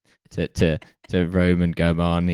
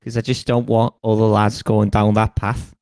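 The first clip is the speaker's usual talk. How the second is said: put-on light Scouse accent as a weary old king; lightly voiced Scouse Agamemnon; 2 semitones higher than usual. Agamemnon warns schoolkids in a light Scouse accent. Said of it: "I've made him Scouse".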